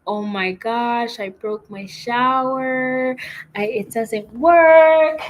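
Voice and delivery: slow, rising into a high, loud wail; mock panic. Retelling her panic at the weak shower, hammed-up and high. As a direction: act out freaking out over the broken shower. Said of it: "freaking out".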